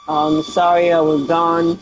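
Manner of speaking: hoarse after surgery; rough, hoarse voice. Real, not acted. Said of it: "I'm still a horse".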